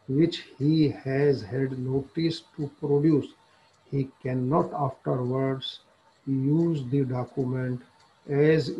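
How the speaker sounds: reading the law text aloud very slowly, word by word; slow statute reading. Acted. Lecturer reading the statute to law students, slow dictation.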